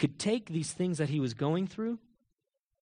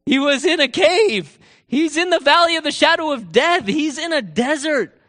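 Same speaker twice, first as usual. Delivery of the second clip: impassioned preaching; 10 semitones higher, 10 dB louder than usual. Acted. Preacher listing David's hardships to the congregation, impassioned.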